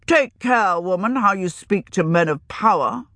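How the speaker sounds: put-on indignant young wizard. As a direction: warn her with scorn. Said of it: "Rey Albi's indignation".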